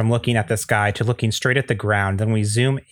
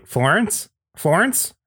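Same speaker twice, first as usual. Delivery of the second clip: rising, higher on the second call; calling out questioningly; 7 semitones higher, slower than usual. Acted. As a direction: call after someone who has gone. Calling after someone who left.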